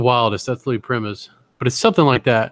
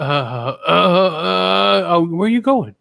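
mock pleading; 4 semitones higher, much slower than usual. Horse lover calling after it.

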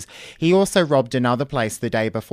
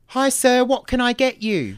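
bright high customer-service greeting, much higher and louder; shop worker voice; 11 semitones higher, 4 dB louder than usual. Acted. Retail girl greeting a robber, pitched high. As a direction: greet him as a chirpy counter girl. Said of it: "Can I be the McDonald's shop worker?".

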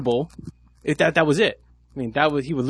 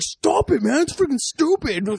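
much higher, slow whiny imitation; mock annoyed guy; slower than usual. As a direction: drag out the complaint in a squeaky voice. Imitating the guy pushed away.

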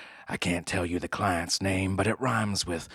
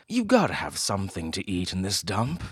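snooty bored cat. Acted. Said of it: "he said".

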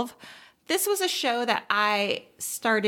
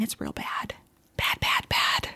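whispered verdict. Real, not acted. Verdict on bad show.

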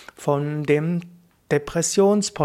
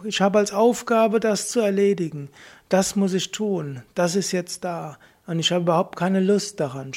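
raised pitch while admitting the reluctance; high voice; 3 semitones higher than usual. Shown as a demonstration. To yourself about an unwanted task, in a higher voice. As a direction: speak higher, owning the dread. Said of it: "In der hohen Stimme kannst du anerkennen".

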